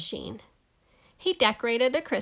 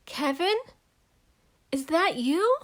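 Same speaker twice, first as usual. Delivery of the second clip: a hint of a higher mother's voice; mother calling; 6 semitones higher than usual. Mother calling out to Kevin, lightly voiced higher. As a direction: call out hopefully.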